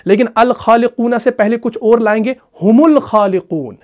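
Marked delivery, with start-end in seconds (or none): 2.6-3.8 "हुमुल खालिकून" slow, mim linked straight to lam; slow linked reading; Arabic recitation. Shown as a demonstration. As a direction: join "हुमुल खालिकून" without the hamza. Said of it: "मीम को लाम के साथ मिलाया".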